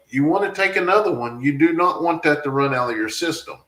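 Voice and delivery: retelling urging his wife to take another one; insistent. Retold or imitated. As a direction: push her firmly to take the pill. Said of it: "I was like".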